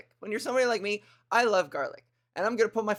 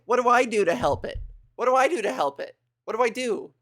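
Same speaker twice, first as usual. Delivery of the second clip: flustered excitement; 2 semitones higher, 5 dB louder, faster than usual. Real, not acted. Flustered by the hype train.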